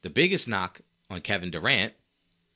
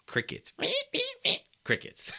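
soft, halting mock cricket chirps; quiet deadpan cricket noises; bad cricket impression; 4 dB quieter than usual. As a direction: fill the awkward silence with badly faked crickets. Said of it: "That was the worst cricket impression".

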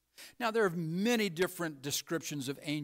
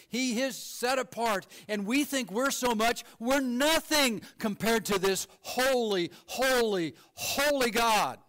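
rising preacher fervor; 5 semitones higher than usual. Real, not acted. Preacher pressing his flock on God's holiness, fervent. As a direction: build the fire toward holy God.

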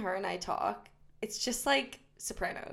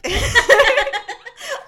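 a big shrieking laugh; loud high laugh; 13 semitones higher, 13 dB louder than usual. Real, not acted. High friend cracking up at herself on the podcast, shrieking laugh.

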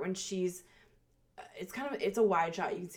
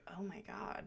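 whispering; 10 dB quieter than usual. Retold or imitated. Acted shocked inner reaction.

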